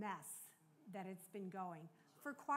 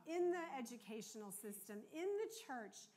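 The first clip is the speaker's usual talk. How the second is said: earnest prayer; 3 dB louder than usual. Retold or imitated. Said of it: "here's what I prayed".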